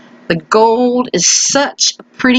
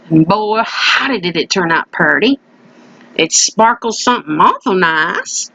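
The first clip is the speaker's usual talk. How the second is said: country voice; 3 semitones lower than usual. Acted. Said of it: "I do my country voice".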